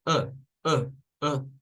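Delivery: short relaxed uh; schwa sound. Shown as a demonstration. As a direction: let the uh push out. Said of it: "Ese es el sonido schwa".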